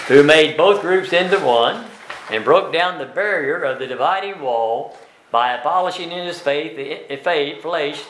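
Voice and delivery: scripture reading. Acted. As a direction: read the verses solemnly to the class. Reads scripture aloud to class.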